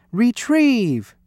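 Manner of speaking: high, falling call to a pet; called command. Acted. Louis to his pet, fetching a purse, called command. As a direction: call out "retrieve" with a drawn-out end.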